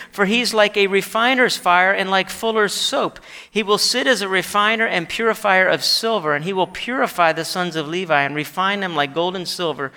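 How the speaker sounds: scripture reading. Acted. Preacher reading Malachi to the congregation, emphatic recitation. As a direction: declaim the prophecy, building then settling at the close.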